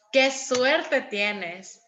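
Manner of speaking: slow drawn-out amazed qué suerte tienes; amazed exclamation. Shown as a demonstration. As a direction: stretch it out like you can't believe their luck. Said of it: "Como cuando alguien de ustedes". (asombro lento y marcado)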